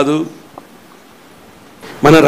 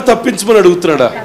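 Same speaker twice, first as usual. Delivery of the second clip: usual speaking voice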